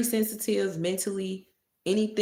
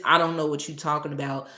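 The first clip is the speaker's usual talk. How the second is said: fast, louder mocking imitation of her; mock dismissive roommate; 4 dB louder, faster than usual. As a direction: throw it off quickly, playing innocent. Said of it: "She does this".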